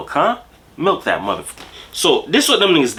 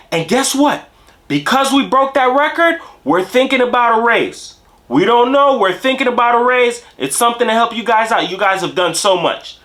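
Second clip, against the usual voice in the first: mock foreman hype; 8 semitones higher than usual. Foreman announcing the record to workers, building to a shout. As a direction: pump up the crowd like a cheesy boss.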